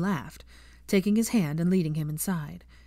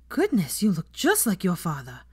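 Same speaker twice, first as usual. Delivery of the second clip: gasped. Acted. Andromeda startled by Draco's face, gasping. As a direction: gasp it as if seeing a ghost. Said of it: "gasped Andromeda".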